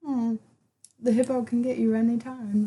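badly faked British monocle man; mock-British gentleman; terrible British accent. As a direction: do a hammy, bad British accent. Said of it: "That was a terrible British accent".

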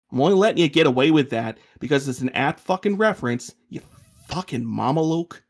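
loud, needling, sarcastic jab; grudging annoyance. Acted. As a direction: grudgingly give him credit. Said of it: "Chenzo sounds aggravated".

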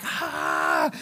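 low, drawn-out "ahh"; imitated open-mouthed "ah". Runner charging into the color arch, imitated "ah".

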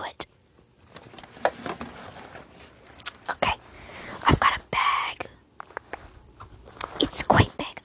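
whispering shop assistant; hushed friendly store clerk; ASMR salesperson. Acted. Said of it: "salesperson trying to, like, sell you some clothing".

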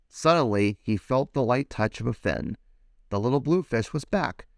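put-on lively read-aloud for children; animated picture-book reading; storybook narration. A narrator's reading. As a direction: tell it like bedtime story time.

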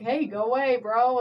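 mock Southern brush-off; imitated Southern accent; retold Southern accent. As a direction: shoo someone off with a light Southern twang. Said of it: "started talking in a Southern accent".

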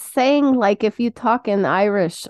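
playful fake Russian accent; clarify in mock Russian accent; put-on Russian accent. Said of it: "Stick to Russian".

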